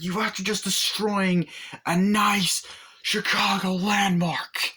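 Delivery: mock angry cop. Acted Belushi character scolding Arnie.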